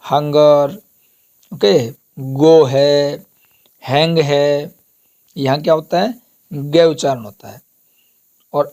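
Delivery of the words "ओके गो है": गो drawn out slowly with a hard g; slow word demo. Shown as a demonstration. Teacher modelling the hard g, slowly. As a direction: hold गो long so the g is clear. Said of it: "शेष स्थानों पर बहुधा ग का उच्चारण".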